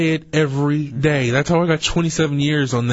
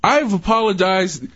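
nervous; 5 semitones higher than usual. Real, not acted. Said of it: "That was a nervous".

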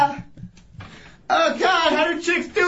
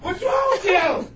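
angry yelling; 2 semitones higher than usual. Real, not acted. Yelling at them.

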